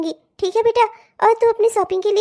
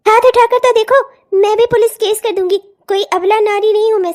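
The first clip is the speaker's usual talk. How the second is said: louder defiant dare, stress on देखो; angry; 4 dB louder than usual. Acted. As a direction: challenge him head-on. Wife dares husband to hit. (पति को ललकारती पत्नी)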